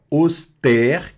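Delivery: "auster" with a clear open è. Shown as a demonstration. Teacher shows the grave accent, "auster" with open è. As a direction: repeat "auster" carefully, opening the final e. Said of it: "vai ter um som aberto".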